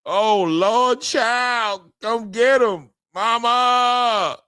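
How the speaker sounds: hammed-up cry of pain, calling for mama; comic fake anguish over a knockout; mock wail for mama. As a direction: play the knocked-out fighter wailing for his mother. Mock wailing at a knockout replay.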